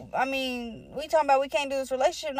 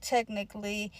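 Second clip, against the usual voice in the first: TECHNICALLY dropped softer; softly admitted TECHNICALLY, tailing down; lowered concession; 3 semitones lower, 6 dB quieter than usual. Retold or imitated. Conceding it after denying it.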